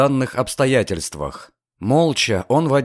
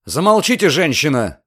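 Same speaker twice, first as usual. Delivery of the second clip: rough cutoff; 4 semitones higher than usual. Acted. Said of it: "грубо оборвал её замечание Люциан".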